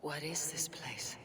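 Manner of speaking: awed whisper. Acted. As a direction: breathe it as you take in the hall. Awed arrival in Valhalla.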